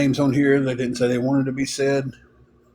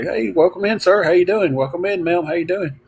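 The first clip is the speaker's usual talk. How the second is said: higher, bright front-desk greeting; cheery greeter; 5 semitones higher than usual. Retold or imitated. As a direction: welcome them like an eager clerk. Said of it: "he would all be like".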